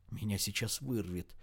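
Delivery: very soft, trembling murmur; faint murmur. Acted. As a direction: barely get the words out. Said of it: "ещё тише пролепетала она".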